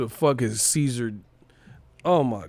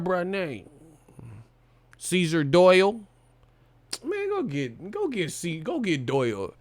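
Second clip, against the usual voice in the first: mock comeback; 5 semitones higher than usual. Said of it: "you on the set and shit".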